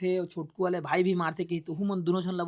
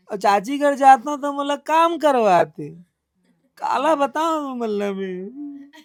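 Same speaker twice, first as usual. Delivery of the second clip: put-on slower and louder, spelling out each phrase for the girl; slow and clear demo; 5 semitones higher, 7 dB louder, slower than usual. Shown as a demonstration. Interviewer shows the girl how to say it, slow and loud. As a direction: take it slowly and say it out loud, like a model line. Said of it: "ऐसे थोड़ा आराम से बोलबे".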